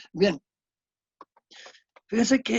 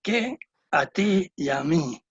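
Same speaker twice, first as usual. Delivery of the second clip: reproachful; slower than usual. Shown as a demonstration. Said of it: "Uno es un sentido de reproche".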